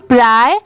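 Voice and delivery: प्राय with an "eye" glide, "pry"; corrected pronunciation. Shown as a demonstration. Teacher answering her own sound question, प्राय as "pry". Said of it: "क्या आ रही है इसकी sound".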